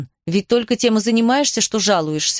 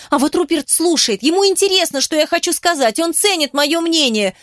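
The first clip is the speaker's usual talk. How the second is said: furious tirade; 6 semitones higher than usual. A narrator's reading. Cecily venting her hurt at Kitty, high indignant rant. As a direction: pour out every grievance at her sister.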